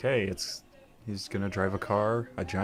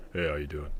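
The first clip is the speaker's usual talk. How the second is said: lazy mellow imitation. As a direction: drag it out lazily like a stoner. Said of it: "you've always been so super mellow".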